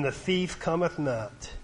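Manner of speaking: slow, solemn reading of the verse; scripture reading. Acted. Preacher reading John to young people, slow and solemn. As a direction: read it out weighty and unhurried.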